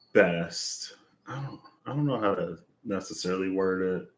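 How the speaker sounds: slightly out of breath; speaking short of breath. Real, not acted. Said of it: "I feel like I'm out of breath".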